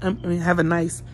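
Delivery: sleepy, just out of bed; groggy morning voice; just woke up. Real, not acted. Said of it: "because I just woke up".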